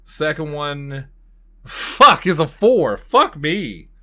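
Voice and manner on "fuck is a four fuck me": loud, high burst that eases off; real exasperated outburst; frustrated swearing. Real, not acted. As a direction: curse a rotten dice roll. Rolls badly on the dice.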